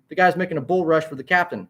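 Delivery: high-pitched, mildly shouted play-by-play; urgent announcer raising the voice; shouted commentary. A narrator's reading. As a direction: call out the sudden charge. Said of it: "shouted Sammy".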